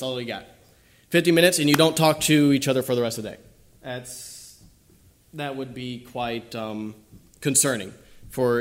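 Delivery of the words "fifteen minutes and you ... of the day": emphatic. Acted. Mocking a time-limited relationship, emphatic.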